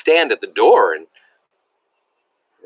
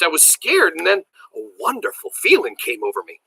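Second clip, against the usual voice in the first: animated read-aloud with lifted pitch; story narration; 3 semitones higher than usual. A narrator's reading. Teacher reading Billy's story to a class, animated narration. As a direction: tell it with wonder and drama.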